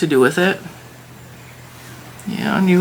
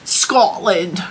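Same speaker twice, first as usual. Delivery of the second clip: whispered Scotland. Shown as a demonstration. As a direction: breathe "Scotland" without voice. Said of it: "I don't know how to say it in an accent".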